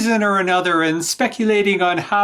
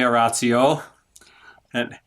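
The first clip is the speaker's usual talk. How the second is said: sly whisper; 8 semitones lower, 3 dB quieter than usual. Acted. Schemer hushes the lover's name.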